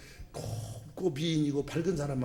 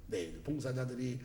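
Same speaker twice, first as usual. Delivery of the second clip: prayer voice; 4 dB quieter than usual. Shown as a demonstration. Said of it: "항상 기도할 때 그렇게 해요".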